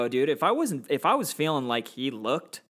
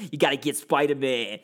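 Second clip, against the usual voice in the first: half-managed growly Brooklyn villain; Green Goblin. Retold or imitated. Podcaster showing the villain's voice, loose goblin imitation. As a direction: imitate a goblin with a New York accent. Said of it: "his goblin voice is like".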